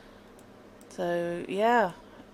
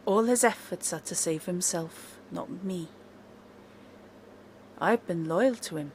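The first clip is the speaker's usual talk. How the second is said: elf NPC voice; 9 dB quieter than usual. Acted. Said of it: "he says".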